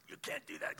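imitated outburst with a German accent; loud German-accented objection. German partner breaking up the meeting, imitated loud objection.

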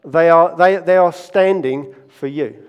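retold shout. Exasperated stage manager to a reluctant young pianist, retold shout. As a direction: shout it as a storyteller would, punching each phrase. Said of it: "and he just shouts".

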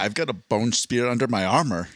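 lightly voiced Scottish film star; Sean Connery. Comic repeating his armor joke, drifting into a Connery impression. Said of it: "I started morphing into Sean Connery".

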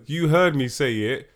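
loud, slow, drawn-out hype; hype announcer. Pretend. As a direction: announce it like a movie trailer. Hyped intro of the episode's movie.

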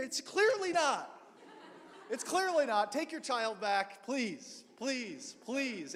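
high, loud laughing plea, slowing on please; mock desperate pleading. Stranger begging the mother to take back her crying child, laughing and high. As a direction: beg through a laugh to be rid of the baby.

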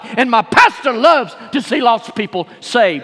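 forceful pulpit cadence with punched key words; fired-up preaching. Acted. Preacher urging church to vouch for its pastor, fired-up preaching. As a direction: build it into a rousing, driving refrain. Preaches as Paul, then as congregation.

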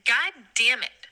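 slow, exasperated cursing; pissed off. Real, not acted. Ranting to a friend about Robin Hood, slowly pissed off. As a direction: drag out the swearing in real exasperation. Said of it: "I'm so fucking pissed about it".

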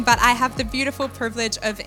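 ordinary talk, nothing marked

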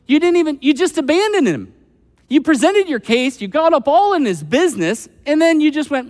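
a touch of Elihu's frustrated scolding; Elihu's anger. Retold or imitated. Elihu scolds the friends for abandoning Job, mildly heated. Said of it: "It says he burned with anger".

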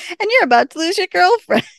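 loud, high mock taunt; Beth. Host imitates Beth taunting Waverly, loud mock tirade. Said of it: "going off half cocked".

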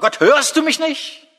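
high, slow pleading cry; anguished cry. Acted. Preacher shows the congregation how to cry to God, pleading.

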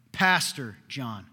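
PASTOR hit hard, each word slow and separate; slow, pointed "Pastor ... John"; insistent correction. Retold or imitated. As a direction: imitate a pompous caller stressing "Pastor", slowly. Caller repeats correction after "What?.

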